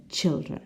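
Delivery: put-on "children" with a short I, not EYE; different vowel. Shown as a demonstration. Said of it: "The word which is different is children".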